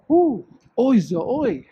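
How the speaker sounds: shouting to hear the echo; calling out into a cave. Real, not acted.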